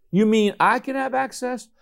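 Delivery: high-pitched, wondering disbelief; amazed questioning. Acted. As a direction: ask it as if it's too good to be true. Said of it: "your faith leaps up and says".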